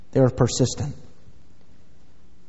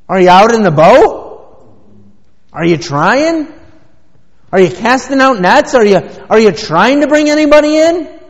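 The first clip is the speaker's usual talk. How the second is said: loud questions climbing higher and higher; challenging questions; 6 semitones higher, 7 dB louder than usual. Real, not acted. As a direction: build from firm challenge to high, loud demand. Challenges the complainer with rising questions.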